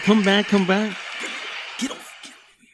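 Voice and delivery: put-on whispered, calling the kid back; urgent whisper. Dad whispering to his toddler in the restaurant, urgent whisper. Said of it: "With the waving of the hand".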